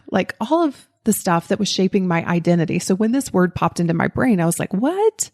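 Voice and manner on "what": high startled what; baffled high exclamation; surprised what. Retold or imitated. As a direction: react as if the question makes no sense. Brain rejects an unlikely idea.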